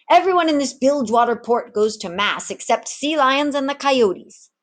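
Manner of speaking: a retired rogue content with his lot; easygoing old tavern keeper. Acted. Samuel turns Ginger down, lightly voiced old man.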